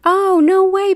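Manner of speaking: real surprise at a chat message; surprised. Real, not acted. Reading chat, a loud high surprised exclamation.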